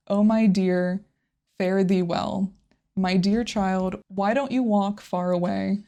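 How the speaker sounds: even, measured reading of lyrics; understated recital of a tender farewell; translation reading. Acted. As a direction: read it out gently line by line, with small pauses. Reads the translated song lyrics.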